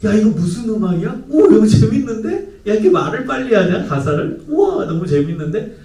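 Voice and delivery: high, hammed-up wows of admiration; feigned keen interest. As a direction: play a dad acting impressed by his son's music. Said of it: "그 순간에는 호감을 보이는 거예요". (과장되게 감탄하며 호감을 보이는 아빠)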